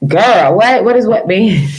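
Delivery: put-on "Girl, what?" snapped out sassily; sassy pop. Shown as a demonstration. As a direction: pop the "does" with attitude. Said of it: "I just have to do the ghetto pop".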